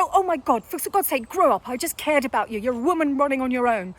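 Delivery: mildly exasperated retort, imitated; argumentative. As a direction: retell her argument with mock impatience. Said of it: "she gets completely argumentative".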